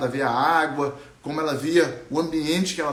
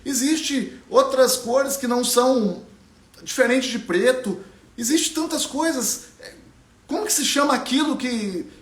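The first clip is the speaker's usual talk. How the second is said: higher, distressed questions tumbling out; lost girl asking the sky why; upset young Ariana; 6 semitones higher than usual. Acted. Ariana alone in a tree, asking aloud, distressed.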